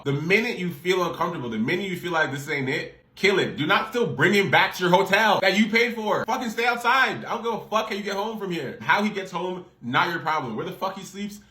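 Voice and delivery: fired-up pep talk; heated advice. Real, not acted. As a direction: drive the point home passionately.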